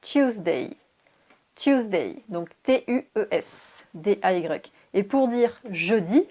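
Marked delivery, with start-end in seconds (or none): 0.0-0.8 teacher's careful model of Tuesday; English pronunciation of Tuesday. Shown as a demonstration. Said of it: "pour dire mardi en anglais, on va dire". 1.5-2.2 Tuesday said on its own, falling at the end; English pronunciation of Tuesday. Shown as a demonstration. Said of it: "pour dire mardi en anglais, on va dire".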